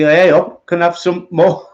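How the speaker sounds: a hint of northern Oliver Twist begging. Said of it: "like, Oliver Twist".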